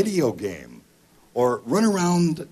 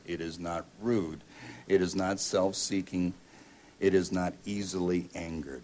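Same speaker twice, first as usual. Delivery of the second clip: scripture reading; 4 semitones lower, 5 dB quieter than usual. Acted. Pastor reading First Corinthians to the congregation, solemn. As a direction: read each line as a solemn truth.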